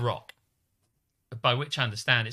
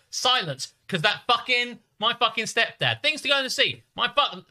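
higher, lightly put-on Cockney rant; mock Cockney; 7 semitones higher than usual. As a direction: imitate Will ranting in a Cockney twang. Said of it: "he doesn't actually talk like this".

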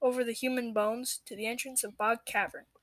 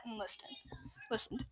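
unvoiced hushed narration; whisper; 12 dB quieter than usual. A narrator's reading. Narrator closes the scene, whispering. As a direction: draw listeners in with a whisper.

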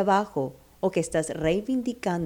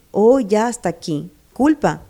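firm declaration; 5 dB louder than usual. Pretend. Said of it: "Y di".

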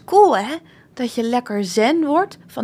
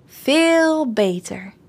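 slow, sighing relief; relieved; much slower than usual. Acted. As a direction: let the tension go, slowly. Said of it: "zegt Lou opgelucht".

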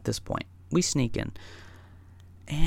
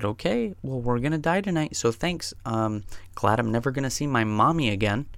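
sarcastic resignation. Retold or imitated. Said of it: "we said".

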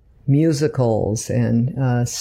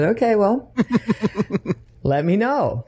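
laughing; 8 semitones higher than usual. Retold or imitated. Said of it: "and I said".

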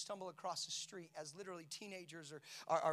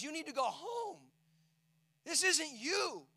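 firm plea; 8 semitones higher, 7 dB louder, slower than usual. Retold or imitated. Friend pleads with drunk daughter.

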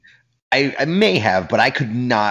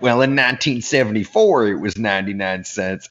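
put-on old lady's drawled accent. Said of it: "the old lady who had said".

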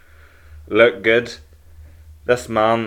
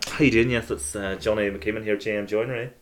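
posh phone voice; 4 dB quieter than usual. Retold or imitated. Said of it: "I only put a posh voice on, on when I'm on the phone".

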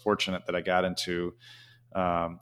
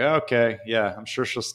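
sarcastic; 3 semitones higher than usual. Retold or imitated. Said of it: "they're, like, sarcastic".

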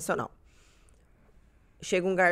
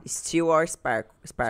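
slow, careful English words from a waiter; mild imitation of an English-speaking waiter; waiter's English; much slower than usual. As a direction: spell out the waiter's question slowly in English. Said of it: "chegou o garçom e perguntou pra mim".

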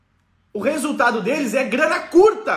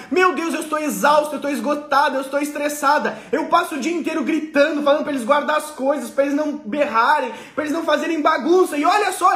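put-on worn-out mum venting about the kids; mock tired sighing; exhausted mother. Acted exhausted mother to husband.

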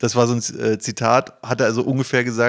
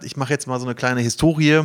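ordinary talk, nothing marked

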